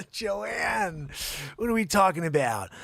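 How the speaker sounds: mock indignant shout at Joanne; exasperated call.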